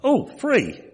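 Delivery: high, mock-innocent old man voice with a laugh; a light imitation of a simple old man; simple old Bill. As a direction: pitch it way up like a naive old fellow marvelling at freebies. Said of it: "and he goes".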